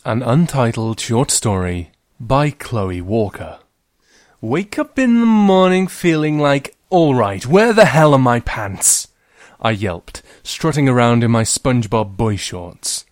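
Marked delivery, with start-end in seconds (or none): 4.4-9.1 high, loud pants panic; frantic girl. Acted. Girl hunting for her pants, high loud panic. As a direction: yell it like a frantic morning search. Narrator starts story in character.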